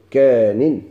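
"كان" repeated slowly as a two-syllable form ending -in; "كان" spaced out for students; variant pronunciation. Shown as a demonstration. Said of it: "بحذف المادة".

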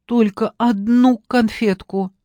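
put-on slow sheepish child's admission; small guilty boy owning up. A narrator's reading. Boy confesses softly.

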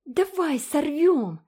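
very high, loud, slow gleeful cry; eager shout. A narrator's reading. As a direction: egg him on. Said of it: "крикнула Джеральдина". (азартно крича)

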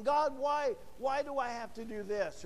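lightly acted complaint to God; mock fussing. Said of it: "we start fussing".

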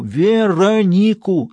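slow, high, loud stretched-out name; drawn-out shout. Acted. Stas repeating the name slowly down the phone, shouting. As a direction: drag the name out, each syllable loud.

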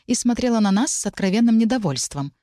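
plain reading voice

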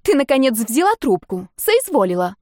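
a friend's voice, loud and sarcastic; irritated friend. A narrator's reading. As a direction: scold her for finally picking up. Angry friend on phone.

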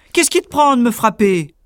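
hammed-up giant anger; angry giant. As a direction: blame your companion hotly. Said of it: "cria celui-ci".

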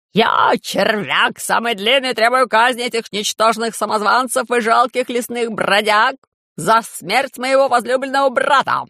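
a haughty noble yelling for blood; shouting. Acted. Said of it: "закричал".

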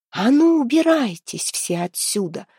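slow, piercing commanding cry; piercing shout. Acted. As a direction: shout the crowd away imperiously. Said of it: "закричала она, и её пронзительный голос".

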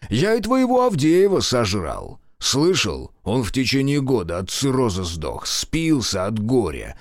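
мстительный генерал, с издёвкой; злорадный старый генерал. Acted. General Kotelnikov voice. (злорадный генерал)

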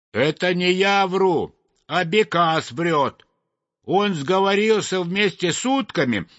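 high-pitched protesting sparrow; sparrow defending himself. Acted. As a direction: deny it and blame the other bird.

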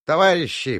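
горячо, громко позвать; пылко воззвать к товарищам; пылкий возглас. A narrator's reading. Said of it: "пылко возвал". (пылкий призыв)

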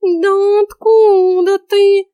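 loud high startled blurt; cat caught out, blurting; flustered loud slip of the tongue; blurted in shock. A narrator's reading. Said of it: "ляпнул кот, опешив".

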